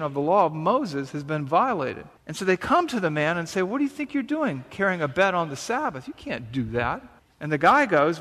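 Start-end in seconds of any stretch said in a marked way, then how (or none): 3.6-7.0 lightly acted indignant telling-off; indignant challenge. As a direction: quote a disapproving challenge without raising the voice. Acted challenge to the healed man.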